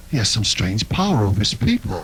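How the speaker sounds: low, lightly voiced mock white man; imitating white man. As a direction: drop low and sound like a puzzled white man. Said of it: "He's, he's going".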